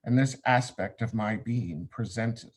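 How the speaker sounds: measured, declamatory recitation with deliberate pauses; solemn scripture reading. Acted. Class leader reads the meditation on Samekh to students, solemnly declaimed. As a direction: intone it like holy writ, each phrase firm then falling.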